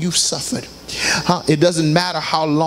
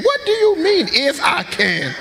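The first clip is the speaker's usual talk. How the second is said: offended retort; 9 semitones higher than usual. Acted. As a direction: act offended at the doubt. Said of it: "They come in, "Would you bake me".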